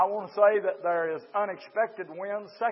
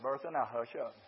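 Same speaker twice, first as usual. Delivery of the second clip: nurse hushing; 7 semitones lower, 8 dB quieter than usual. Retold or imitated. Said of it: "The nurse said".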